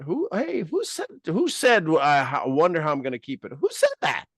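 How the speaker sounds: high-pitched comic alarm; mock startled challenge. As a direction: voice jumps very high on each question. Acts startled dialogue with self.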